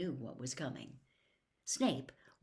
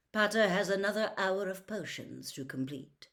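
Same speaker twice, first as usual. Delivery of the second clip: cold; 3 semitones higher than usual. Acted. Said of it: "said Snape coldly".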